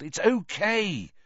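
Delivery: high-pitched, drawn-out yelled reassurance. Acted. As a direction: call out over the panic. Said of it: "Ron yelled".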